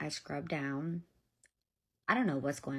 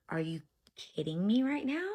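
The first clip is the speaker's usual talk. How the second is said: higher-pitched, incredulous comeback; retold disbelief; 4 semitones higher, 4 dB louder than usual. Mother hears the worker's accusation, incredulous. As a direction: act out being taken aback.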